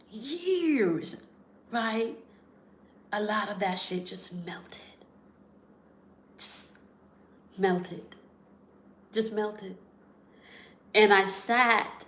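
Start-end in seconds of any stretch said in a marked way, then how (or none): 0.1-2.2 breathy whispered years, falling away. Real, not acted. Telling listeners about a man's release, whispered. Repeats the word, dropping to a whisper. 3.1-9.8 whispered, fading to almost nothing; hushed whisper. Real, not acted. Describing the man's pain melting away, soft whisper. Emotional climax of the story.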